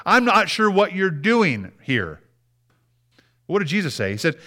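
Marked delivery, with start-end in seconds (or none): 0.1-2.2 high-pitched, candid plea to God; acted-out protest in prayer; honest complaint prayer. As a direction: voice your doubts upward, slowing at the end. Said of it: "go to the, go to God".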